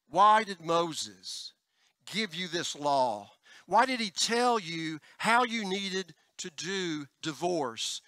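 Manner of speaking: very slow, deliberate questioning; voicing Jesus. Pastor quotes Jesus questioning the Pharisees, slow and deliberate. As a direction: draw each word out like a probing teacher. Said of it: "The issue that Jesus says in Matthew nineteen".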